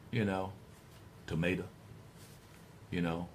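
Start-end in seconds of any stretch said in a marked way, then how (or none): 1.3-1.6 "tomato" ending in "uh" instead of O; drawled "tomato" with the last O dropped; Southern drawl shortcut. Shown as a demonstration. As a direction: say "tomato" as a low "tomayta". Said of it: "That's what the drawl is. It's kind of a shortcut".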